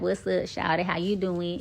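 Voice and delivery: laid-back Atlanta street talk; Atlanta accent. Shown as a demonstration. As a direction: talk like you grew up in Atlanta. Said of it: "we used to talk like this".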